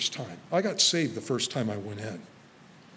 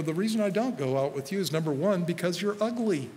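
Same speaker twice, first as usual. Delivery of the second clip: teasing retort; 4 semitones higher than usual. Retold or imitated. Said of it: "I seriously said this to him".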